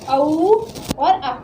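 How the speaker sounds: औ और आ stretched out very slowly, each vowel held; very slow vowel demo. Shown as a demonstration. Teacher shows students the vowels औ and आ, very slowly. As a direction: draw out औ and आ for the class to copy. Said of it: "इससे उच्चारण कैसे होता है".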